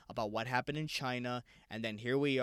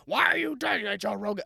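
put-on terrible Italian-swagger accent, high and loud; Joey Diaz; 7 semitones higher, 6 dB louder than usual. Host mimicking comedian to fellow podcaster, terrible Italian accent. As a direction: holler it in a badly faked Italian accent. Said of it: "That is a terrible accent".

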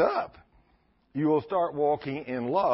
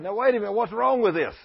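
surprised; 7 semitones higher, 5 dB louder than usual. Retold or imitated. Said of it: "He said".

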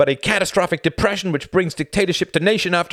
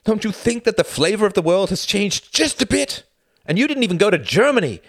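loud and much higher, hammering each item; demanding; 14 semitones higher, 9 dB louder than usual. Acted. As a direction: jump up and demand an answer. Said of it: "demanded Tom, jumping up".

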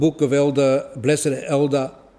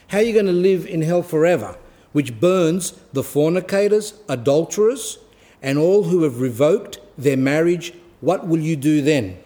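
stern elder; 3 semitones higher than usual. Retold or imitated. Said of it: "The elder spoke very strictly".

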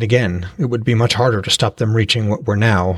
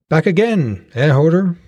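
put-on raised, friendly greeting to an old customer; friendly, familiar; 6 semitones higher than usual. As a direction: call out like a trader who knows him well. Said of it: "called Uni in a friendly, familiar tone".

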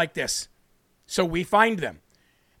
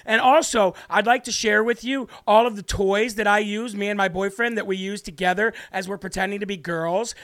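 lightly mimicked teacher, mockingly sweet; mocking teacher impression. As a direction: slip into a slight parody of the teacher. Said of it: "This is what they really want to say".

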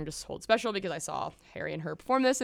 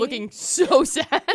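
mock pitiful; 8 semitones higher, 8 dB louder, much slower than usual. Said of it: "sitting in the corner crying".

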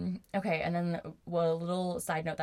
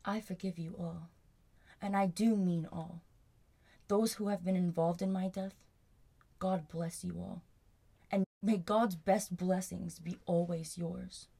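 grating, mock-pious reading; annoying voice. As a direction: read it like a smug phony saint. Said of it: "read this in his annoying ass voice".

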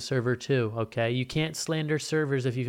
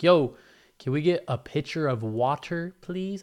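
douchey demand; 4 semitones higher than usual. Retold or imitated. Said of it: "I didn't say it like that douchey".

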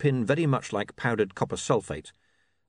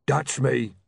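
big bruiser's hearty announcement, higher; cheerful boom; 4 semitones higher, 3 dB louder than usual. A narrator's reading. Rocky greeting the angry barbarian, booming cheerfully. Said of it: "boomed Rocky cheerfully".

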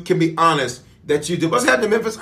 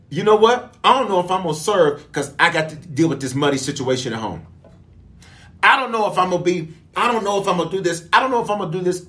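mock doubter; faster than usual. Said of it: "you have literally said".

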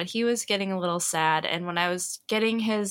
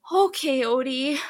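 put-on little kid's pitched-up, louder okay; little brother calming down; 6 semitones higher, 3 dB louder than usual. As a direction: imitate a small boy bravely agreeing. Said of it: "takes a deep breath".

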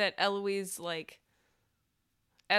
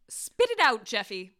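sharp demand; 3 dB louder than usual. Acted. Eloise demands answer.

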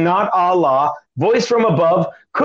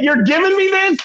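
retold disbelief; 13 semitones higher than usual. Stunned by brother's generous gift.

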